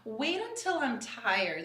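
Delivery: slow, a touch of Boston on "tired"; understated Boston accent. Shown as a demonstration. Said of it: "That's usually when it kicks in".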